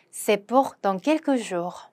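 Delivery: very slow, careful French; slow pronunciation model; slow demo. Shown as a demonstration. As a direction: lay out each syllable slowly for learners. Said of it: "pronunciation demo".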